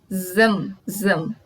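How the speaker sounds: zam drawn out slowly; zam, the sound of the SM ending. Shown as a demonstration. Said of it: "no final da palavra".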